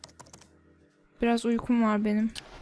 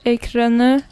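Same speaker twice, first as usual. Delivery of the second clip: loud announcement; 9 dB louder, slower than usual. Real, not acted. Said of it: "Geri döndüm".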